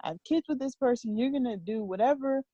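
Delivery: lightly voiced exasperated parent, going on and on; God. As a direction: imitate a frustrated lecture to a stubborn child. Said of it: "he just keeps going on".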